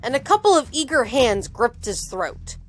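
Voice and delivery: animated audiobook reading; measured, dramatic storytelling; story narration. A narrator's reading. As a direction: read the action out crisply to listeners. Reads the novel aloud.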